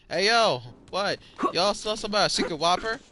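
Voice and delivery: the lady hollers to the kitchen; calling out to coworkers. Retold or imitated.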